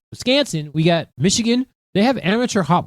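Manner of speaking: put-on "Wisconsin" in a Fargo accent, flattened middle A. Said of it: "Fargo accent".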